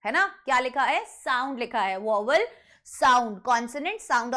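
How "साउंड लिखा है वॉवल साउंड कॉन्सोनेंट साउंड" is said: साउंड picked out each time it comes; insistent stress. Shown as a demonstration. Teacher repeating an exam point, insistent stress on साउंड. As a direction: hammer home the word साउंड. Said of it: "बार बार इस चीज पर जोर".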